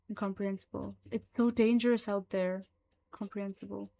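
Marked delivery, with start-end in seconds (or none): 1.1-2.7 louder, frightened pleading; fearful. Acted. Frightened creature explains itself to Mullins, louder. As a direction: blurt it out in fear. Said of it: "fear in its voice is apparent".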